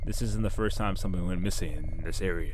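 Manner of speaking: lightly voiced gruff gas station clerk; a hint of a grumpy night clerk, then suddenly helpful; shop clerk voice. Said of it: "I don't know why I gave him that voice".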